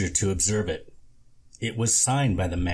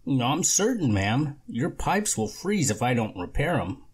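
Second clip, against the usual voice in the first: lightly voiced slick contractor, a bit higher; a hint of a smooth-talking repairman; smooth con man; 6 semitones higher than usual. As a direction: sell it like a sweet-talking con artist. Lorne the con man pitching.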